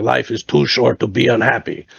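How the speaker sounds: imitated German accent, each word spelled out; lightly voiced old German buddy's accent. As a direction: repeat it firmly in a German accent. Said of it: "like, crazy German accent".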